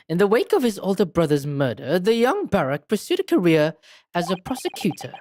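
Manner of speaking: lilting, theatrical character voice; expounding game detective. Acted. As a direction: expound it with big swoops of pitch. Game character telling backstory.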